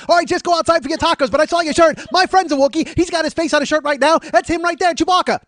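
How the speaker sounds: loud, very high excited Australian; Australian accent. Acted. Australian stranger recognizing Chewbacca from his shirt, loud accent. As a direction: badger him in a hammed-up Australian shout. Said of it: "my Australian or my Wookiee".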